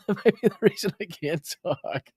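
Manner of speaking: R F K Junior. Acted. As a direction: imitate a politician's halting, strangled voice. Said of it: "have you spoken to R F K Junior today?".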